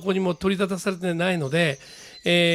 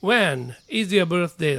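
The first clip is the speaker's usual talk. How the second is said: slow, careful English; teacher's slow example sentence; slow model reading; much slower than usual. Shown as a demonstration. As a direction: read it out slowly for review. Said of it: "whenの疑問文見て".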